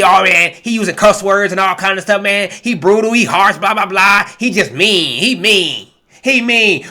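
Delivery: mock the people who call him harsh; mocking critics. Preacher mocking critics who call him mean, lightly whiny. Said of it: "People get mad at me".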